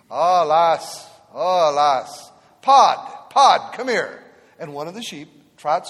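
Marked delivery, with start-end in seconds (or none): 0.1-4.2 loud Scottish brogue calling out; Scottish shepherd. Retold or imitated. Old Scottish shepherd calls his sheep, loud Scottish brogue. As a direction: call the sheep over in a Scottish burr. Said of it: "I hear a voice".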